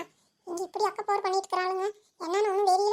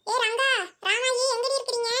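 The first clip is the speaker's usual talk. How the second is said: calling out; 3 semitones higher, 3 dB louder than usual. Acted. Neighbour calls for missing women in the smoke, calling out. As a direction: call out to find the missing women.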